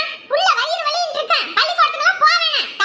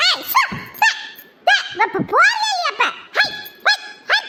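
shooing call; 4 semitones higher than usual. Acted. Shooing a cow from plants.

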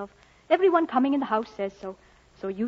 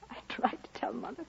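whispered confession; 12 dB quieter than usual. Acted. Sister confessing to brother, breaking.

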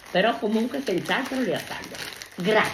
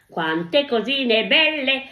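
delighted marvelling; 5 semitones higher, 4 dB louder, much slower than usual. Real, not acted. Grandma marvels at gifts.

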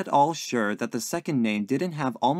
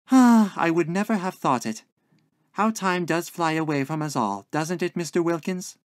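higher voice opening on a loud sigh; sighing, wistful landlady; 6 semitones higher, 5 dB louder than usual. A narrator's reading. Landlady musing on how time flies, daintily wistful. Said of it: "heaving a dainty little sigh".

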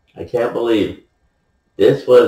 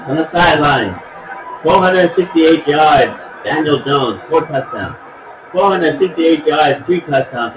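higher-pitched sports reporter rundown; sideline report; 5 semitones higher than usual. Pretend. Sideline reporter recaps big stat lines to viewers, announcer style.

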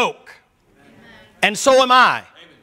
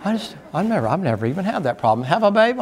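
feigned innocence; faster than usual. Retold or imitated. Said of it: "'cause y'all are like".

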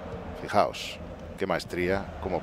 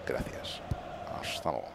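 whispered thanks; 8 semitones lower, 16 dB quieter than usual. Real, not acted. Quick aside while choosing options.

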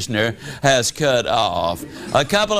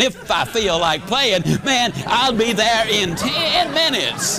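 suddenly eager; 4 semitones higher than usual. Retold or imitated. Husband suddenly eager for golf.

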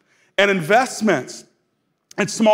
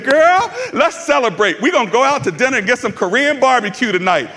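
excited husband; 2 semitones higher than usual. Retold or imitated. Husband voiced excited to wife.

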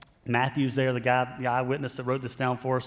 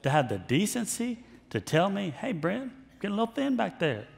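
mock complaint; 6 semitones higher than usual. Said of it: "And I'm like".

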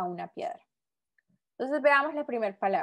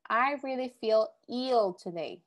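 slow example reading; slower than usual. Shown as a demonstration. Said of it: "Next one".

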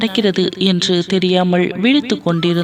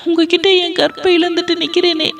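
wailing and crying; 9 semitones higher than usual. Acted. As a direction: beat your head and wail it out, pitched high. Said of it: "தலையில் அடித்துக்கொண்டு அழுதாள்".

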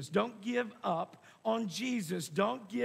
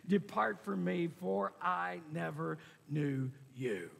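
slowing, lower solemn pronouncement; saddest words; 3 semitones lower than usual. Acted. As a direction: let the sentence sink slowly into sorrow. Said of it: "the saddest words you might find".

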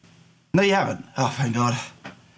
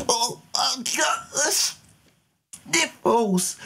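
high, slow whiny sniffle voice; whiny sick voice; 12 semitones higher, much slower than usual. Pretend. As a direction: whine like a sulky sick kid. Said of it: "I'm sick".

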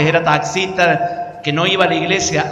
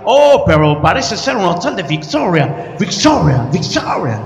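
gringo preacher voice. Retold or imitated. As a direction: let victoria echo away. Gringo's catchphrase. (gringo que repite victoria, cada vez más bajo)

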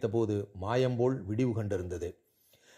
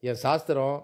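lightly voiced grandmother, often raised in pitch; impassioned pleading grandmother; 4 semitones higher than usual. Grandmother defends the girl to her orthodox son, impassioned pleading. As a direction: plead in short, emphatic, paused phrases.

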